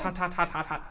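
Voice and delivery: giggling high ow hot hot; laughing mock pain. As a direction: yelp through laughter as if burnt. Mocking burning victim.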